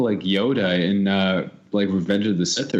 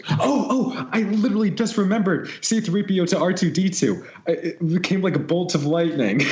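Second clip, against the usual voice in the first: real burst of excitement, much higher pitch; sudden excited recall; 9 semitones higher than usual. Real, not acted. Stumped contestant who literally just remembered the answer, high and excited. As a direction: blurt it out high, like lightning just struck.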